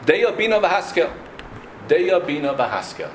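Bina stressed on its first syllable, "Bi"; customary prayer intonation. Shown as a demonstration. Teacher quoting how Ashkenazim pray, Bina stressed at the start. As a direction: recite it with the stress early in Bina. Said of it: "That's a good from pronunciation, i-, intonation".

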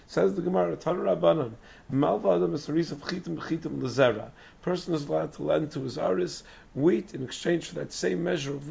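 hoarse, strained lost voice; straining through a lost, hoarse voice. Real, not acted. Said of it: "I lost my voice".

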